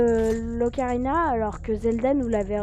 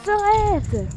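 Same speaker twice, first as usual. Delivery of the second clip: sudden shout; 10 semitones higher, 7 dB louder than usual. Real, not acted. Yells at the game.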